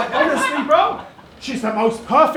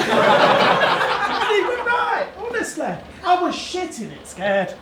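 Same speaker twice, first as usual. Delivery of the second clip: imitated northern English girlfriend, swinging pitch; put-on northern English storytelling voice; northern English accent; 3 semitones higher than usual. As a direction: recount it in a mock northern accent. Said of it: "doing that bird's accent".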